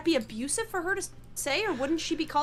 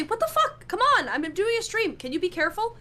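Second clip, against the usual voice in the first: startled, pitched-up yell at a clumsy friend; raised voice; 5 semitones higher than usual. Pretend. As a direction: snap up high, annoyed. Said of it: "if you raise your voice".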